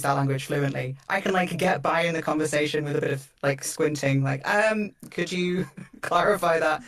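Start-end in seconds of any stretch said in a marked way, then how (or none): 4.5-6.8 slow, hesitant, laughing request; mock hesitant asker. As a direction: squint through the question. Imitating her conversational squint.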